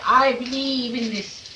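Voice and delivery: drawn-out, imitated profession of belief; slow mock proclamation; mock declaration. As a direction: parrot a belief, stretching it out slowly. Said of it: "They say".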